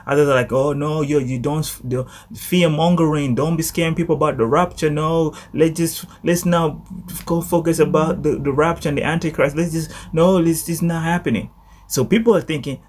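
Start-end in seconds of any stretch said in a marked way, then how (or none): 0.5-11.5 higher-pitched, mildly agitated mock objection; dismissive protest. Preacher imitating Christians who object to rapture talk, dismissive protest. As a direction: imitate naysayers waving the whole thing away.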